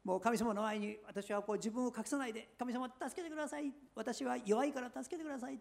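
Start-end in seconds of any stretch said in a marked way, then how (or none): 2.6-5.6 hushed, higher-pitched prayer of a weak believer; pleading prayer. Retold or imitated. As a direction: beg God for help gently, pitched up. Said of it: "とお祈りするんですね".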